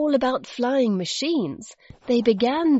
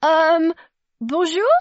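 high, loud, hesitant greeting; falter, then venture a questioning hello; startled girl unsure what to say; nervous stammer; 7 semitones higher, 6 dB louder than usual. A narrator's reading. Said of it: "Zoe stammered".

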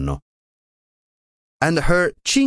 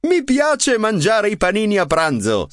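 grinning; 11 semitones higher than usual. A narrator's reading. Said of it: "said Wilma with a grin".

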